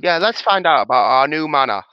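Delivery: clumsy mock Australian accent. Player botching an Aussie accent, loud. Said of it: "That's an Aussie".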